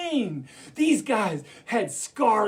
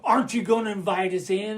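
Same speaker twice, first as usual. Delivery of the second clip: wolf character. Acted. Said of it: "then one of 'em says".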